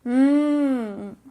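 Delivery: long appreciative hum over tasty food; savouring "mmm". Pretend. Teacher showing the next food, savouring hum.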